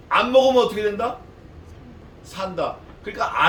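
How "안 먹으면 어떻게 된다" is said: loud quiz. Acted. Preacher quizzes congregation.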